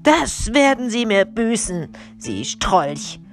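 high indignant start, dropping at the end; fuming police captain, falling pitch; angry hissing. A narrator's reading. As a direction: spit out a threat at a villain. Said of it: "fauchte der Hauptmann".

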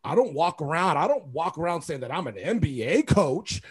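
mildly indignant retold rant; mock-aggrieved protest, building; fired up. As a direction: imitate a coach working himself up. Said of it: "he's still fired up".

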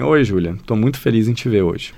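monotone greeting with no melody; flat, no intonation. Shown as a demonstration. Teacher demonstrating a greeting without intonation, flat. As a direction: say it flat, no feeling at all. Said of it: "imagina eu falar assim".

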